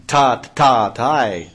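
sharp rhythmic dance syllables called out loud; punchy bursts of drum syllables; excited exclaiming. Acted. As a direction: snap out the beats like a dancer's cry. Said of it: "abruptly exclaiming".

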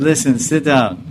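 a touch of stern anger. Retold or imitated. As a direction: imitate a guru putting a questioner in their place. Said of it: "Prabhupada became more angry".

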